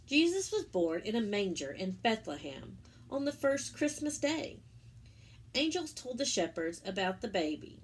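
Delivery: gentle storybook narration; reading to children. Acted. Teacher reading the Easter story to children, storybook voice. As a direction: tell it warmly to little ones.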